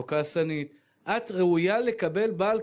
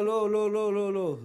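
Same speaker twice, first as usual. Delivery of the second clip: firm refusal; 4 semitones higher, slower than usual. Retold or imitated. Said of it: "אמרתי לה".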